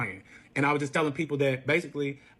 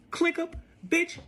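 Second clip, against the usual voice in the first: higher-pitched, exasperated rant; indignant telling-off; 6 semitones higher than usual. Retold or imitated. Woman retelling telling off lying boyfriend, indignant. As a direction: retell chewing him out, voice raised in pitch.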